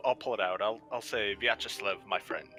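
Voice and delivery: normal talking voice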